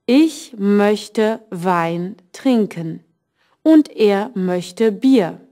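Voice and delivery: slow, careful German read for learners; slow teacher demo reading; slow model sentence. Shown as a demonstration. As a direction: spell it out slowly for the class. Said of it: "Isabella's sentence was".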